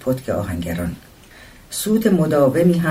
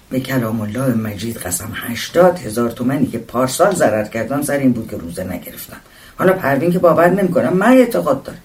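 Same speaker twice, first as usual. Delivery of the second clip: devout husband, insistent. Acted. Husband insisting on his faith to Rezvan, lightly acted and emphatic. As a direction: swear it, then press the point.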